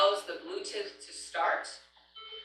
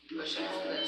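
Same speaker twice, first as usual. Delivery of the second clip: soft whispered instruction to the class; whispered repeat; 3 semitones lower, 4 dB quieter than usual. Shown as a demonstration. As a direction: push and hold this, half whispered. Repeating the step more softly.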